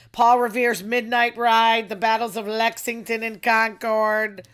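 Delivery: loud roll call of history; patriotic proclamation. Pretend. Massachusetts local listing revolutionary battles, proclaiming. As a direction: announce each event grandly.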